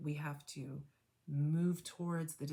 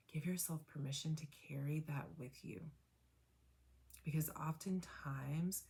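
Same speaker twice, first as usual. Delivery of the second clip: guided meditation. Acted. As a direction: guide them gently into noticing. Guided reflection after tapping.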